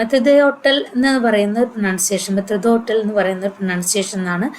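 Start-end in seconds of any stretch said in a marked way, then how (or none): 0.0-0.9 "Method hotel" said as French maître d'hôtel; French pronunciation. Shown as a demonstration. Teacher shows students the French term, French pronunciation. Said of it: "it's a French pronunciation". 2.4-2.9 "method hotel" said as French maître d'hôtel; French pronunciation. Shown as a demonstration. Teacher repeats the French term for students, French pronunciation. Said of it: "it's a French pronunciation".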